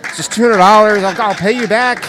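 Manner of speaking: pleading. Retold or imitated. Craig begging for money.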